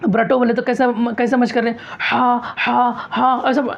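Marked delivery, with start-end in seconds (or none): 2.0-3.4 हा repeated in a rote chant; wrong rushed rote. Shown as a demonstration. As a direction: show the careless drilling. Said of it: "ऐसा नहीं।". (रटते हुए गलत हा)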